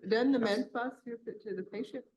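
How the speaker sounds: talking around ice in mouth; mouth full. Real, not acted. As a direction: speak with ice in your mouth. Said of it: "Sorry, I have ice in my mouth".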